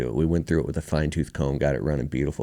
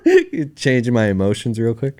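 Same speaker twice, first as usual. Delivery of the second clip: high, slow words through laughter; laughing; 6 semitones higher, 5 dB louder than usual. Real, not acted. Guest relieved not to cry on podcast, laughing. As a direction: talk through a real laugh. Laughing after nearly crying.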